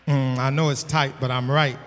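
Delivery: low-pitched murmured admission; knowing aside. Real, not acted. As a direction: drop right down under the preaching. Knowing aside after a hard point.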